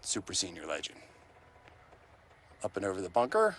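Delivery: hushed golf announcer voice; golf commentator. Acted. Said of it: "You sound like the golf announcer".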